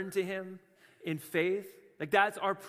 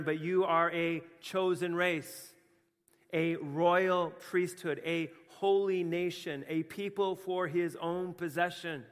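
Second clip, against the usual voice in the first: scripture reading; slower than usual. Acted. Reading scripture aloud slowly.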